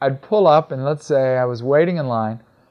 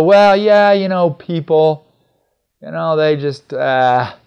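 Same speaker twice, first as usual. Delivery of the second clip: hesitant; 2 semitones higher, 6 dB louder, slower than usual. Retold or imitated. Stranger hesitating about coworkers.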